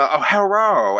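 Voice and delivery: high-pitched imitation of a caricatured Asian accent; mock Asian accent. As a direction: mimic a stereotyped Asian-accent greeting. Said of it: "waiting for the, for him to throw in".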